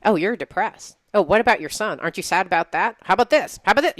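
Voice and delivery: lightly voiced pestering ego; mildly mocking inner nag; nagging ego. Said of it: "your ego pops up and goes".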